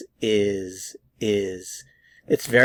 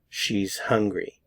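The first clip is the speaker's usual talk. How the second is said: slow model sentence; slower than usual. Shown as a demonstration. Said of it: "We might say something like".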